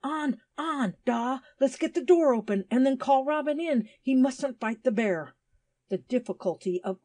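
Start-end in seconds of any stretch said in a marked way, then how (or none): 0.0-5.4 high, loud urging call; acted joyous shout, pitched well up; joyous cry. A narrator's reading. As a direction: cheer a brother on, high and urgent. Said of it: "with a joyous cry".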